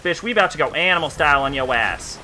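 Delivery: fast ghetto-country trash talk; quick boast in a put-on ghetto-country accent. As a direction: reel off the threat in a half-ghetto, half-country accent. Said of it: "when I went animal style".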